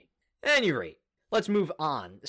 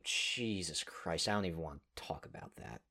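dismayed muttering; 9 semitones lower, 9 dB quieter than usual. Real, not acted. Dismayed at reminder of Beltran extension.

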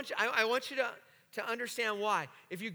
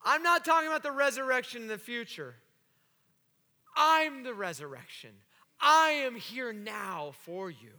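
powerful, in charge; 3 dB louder than usual. Acted. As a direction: state it with full authority, letting each phrase land. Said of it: "like he's in charge".

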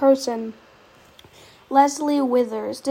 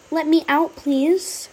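scared horror game streamer; 4 semitones higher, 6 dB louder, slower than usual. Acted. Stuck in sewer, pleading.

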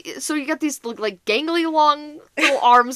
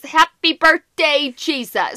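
put-on drunk groaning; 4 semitones higher, 6 dB louder, much slower than usual. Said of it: "all I heard from the bathroom was".

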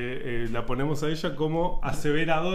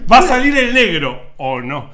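laughing mock question; 7 semitones higher, 12 dB louder than usual. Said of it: "afirmamos algo como diciendo".

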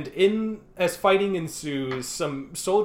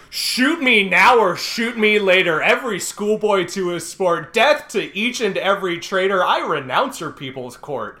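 defiant; 3 semitones higher, 4 dB louder than usual. Retold or imitated. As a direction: spit it back in defiance. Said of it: "the most metal response".

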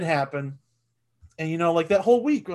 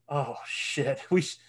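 imagined Will voice; 5 dB quieter than usual. Retold or imitated. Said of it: "hearing Will's voice in my head".

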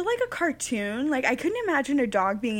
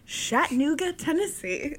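mock posh Chattanooga, rising then falling; fancy pronunciation; 4 semitones higher than usual. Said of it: "made Chattanooga sound fancy".

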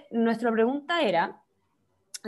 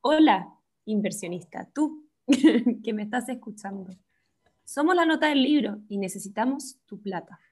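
mock sultry pitch. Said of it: "le hablo con la voz".

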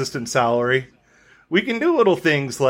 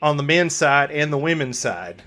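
put-on southern accent. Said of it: "try it in my southern accent".

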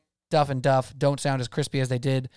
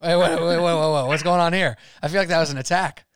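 louder, higher wait wait wait; surprised protest; 4 semitones higher, 4 dB louder than usual. Real, not acted. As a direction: catch on that you've been roasted. Realizes he was roasted.

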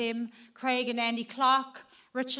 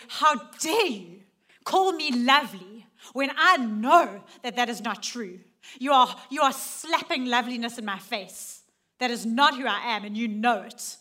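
indignant retort; 5 dB louder than usual. Pretend. Angry retort voiced to God.

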